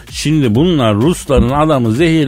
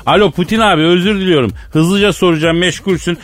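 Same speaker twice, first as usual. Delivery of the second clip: raised, apologetic phone voice; mock phone call; 3 semitones higher than usual. Host pretending to ask the busy president a quick question, mock phone call. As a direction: excuse yourself for interrupting, pitched up.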